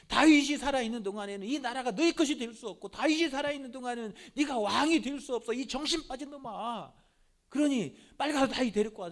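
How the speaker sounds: 좀 높고 크게 다그치는 아버지; 아들에게 다급히 몰아붙이듯. Retold or imitated. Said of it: "어떻게든지 죽이려고 하는 거예요". (아들에게 다윗을 데려오라 다그치는 사울 왕, 성난 목소리)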